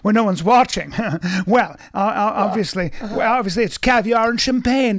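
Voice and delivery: mock posh accent. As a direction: play the snooty elite among his inner circle, breaking into chuckles. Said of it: "But my real accent".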